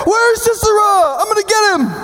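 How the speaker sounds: a general barging in, keen for the fight; eager hunter. Acted. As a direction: burst in itching for the kill. Barak bursts in hunting Sisera.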